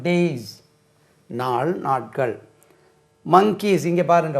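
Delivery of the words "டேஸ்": டேஸ் ending on a voiced Z; Z sound ending. Shown as a demonstration. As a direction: say the final ஸ் of டேஸ் as Z, not S. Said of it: "ஜெட் என்று உச்சரிக்கணும்". (டேஸ் கடைசி ஒலி ஜெட்)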